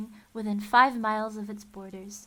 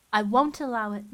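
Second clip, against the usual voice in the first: gasped; 8 dB louder than usual. A narrator's reading. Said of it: "Mister Poe finally gasped".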